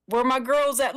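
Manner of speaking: excited. Retold or imitated. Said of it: "I said".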